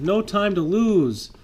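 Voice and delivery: high, slow urgent cry; urgent call. Acted. Will urging the rescue, high and urgent. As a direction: press them to hurry.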